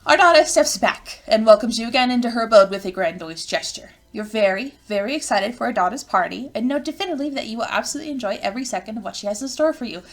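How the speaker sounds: animated game narration read aloud; story narration. A narrator's reading. Narrator welcomes the player to Ardata's party, animated storytelling.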